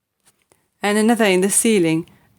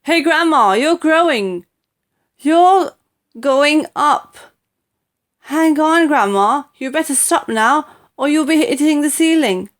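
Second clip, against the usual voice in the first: put-on alarmed boy shouting, higher and louder; shouted; 7 semitones higher, 7 dB louder than usual. A narrator's reading. George to growing Grandma, alarmed shout. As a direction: yell up at her in a panic. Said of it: "George gave a jump and shouted".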